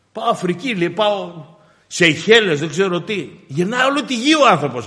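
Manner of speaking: fervent pulpit delivery; impassioned preaching. Acted. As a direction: preach it out, punching phrases and dropping on the address. Preaches on restless world travel.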